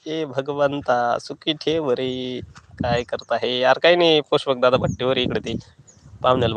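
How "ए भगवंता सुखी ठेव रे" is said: slow, drawn-out plea to God; mock prayer. Begging God in jest, slow mock prayer. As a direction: sigh it out like a prayer.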